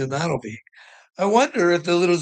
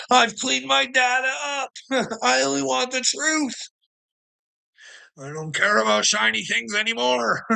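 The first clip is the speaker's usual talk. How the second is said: much higher, with shouts breaking through; defiant declaration; 6 semitones higher than usual. Pretend. Telling Willard what to say to Noah, high defiant shouts.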